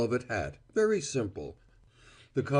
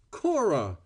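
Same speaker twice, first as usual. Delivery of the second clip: shocked exclamation of her name; aghast cry; 6 semitones higher, 3 dB louder than usual. A narrator's reading. Val reacting to Cora's refusal, a mild aghast cry. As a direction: call her name, stunned. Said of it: "he cried, aghast".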